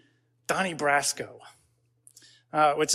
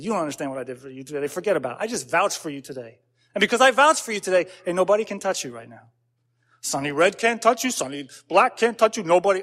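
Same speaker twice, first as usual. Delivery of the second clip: lightly voiced mob guy impression; a hint of movie mobster, building as he vouches; Al Pacino. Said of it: "that's my Al Pacino impression".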